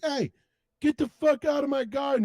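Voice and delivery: high-pitched mock-angry old man. Old man chasing Cartman from his garden, mock anger. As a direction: order off a trespasser, cartoon-style. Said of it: "the old man just, like, comes out".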